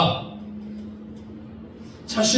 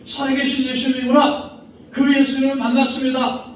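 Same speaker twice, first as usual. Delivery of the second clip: higher, joyful exclaiming; Mary's joyful confession; 5 semitones higher than usual. Acted. Mary confesses the risen Jesus, joyful exclaiming. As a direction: proclaim it with bright wonder. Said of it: "마리아가 고백하는 겁니다".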